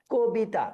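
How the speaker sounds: কবিতা said "ko-bita"; closed first vowel. Shown as a demonstration. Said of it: "প্রথম প্রশ্ন আমরা দেখতে পাচ্ছি উচ্চারণ".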